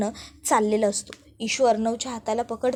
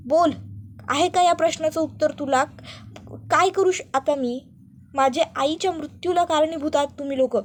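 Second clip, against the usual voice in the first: raised, higher accusing voice; angry confrontation; 4 semitones higher than usual. Acted. Arnav accusing Ishwari over his mother's death, raised angry voice. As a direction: demand an answer from her, hurt and furious.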